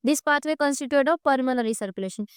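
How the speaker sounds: reads the book line out slowly; dictating from the textbook, word by word; slow textbook reading. Shown as a demonstration. Teacher reads the textbook sentence aloud to the class, slowly.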